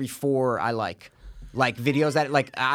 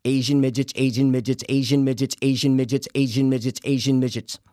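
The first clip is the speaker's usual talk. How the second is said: tongue twister; 3 semitones lower than usual. Shown as a demonstration. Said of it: "Five times fast, go".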